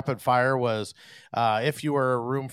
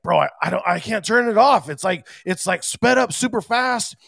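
mock panic; 8 semitones higher, 4 dB louder than usual. Tour DJ panicking at broken controller.

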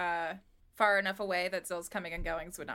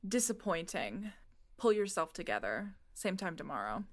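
chill Zarin. Acted. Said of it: "hear Zarin chill in their voice".

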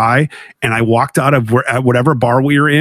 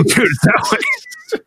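calling out directions; 3 dB quieter, much slower than usual. Retold or imitated. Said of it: "I go".

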